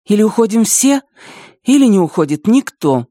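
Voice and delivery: firm, high and pressing ultimatum. Acted. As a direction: lay down the ultimatum, no give. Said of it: "твёрдо сказала Вика".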